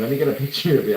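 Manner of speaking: the words break into a laugh; laughing while saying it. Retold or imitated. Artist asking to photograph the botched tattoo, laughing. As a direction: hold back a laugh and let it slip through. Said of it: "I was laughing".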